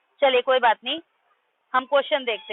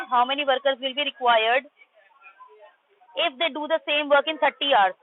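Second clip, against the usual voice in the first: slow reading aloud; much slower than usual. Shown as a demonstration. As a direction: read each word very slowly. Reading the question aloud to class. (बहुत धीरे-धीरे पढ़कर सुनाना)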